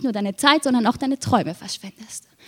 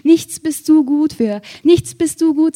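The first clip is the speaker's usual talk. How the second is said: raging mother; 3 semitones higher than usual. Retold or imitated. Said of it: "tobt, schreit, glüht".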